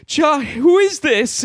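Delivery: high, slow gruff dad voice; a confused old father answering. Acted. Dad answers phone in sketch.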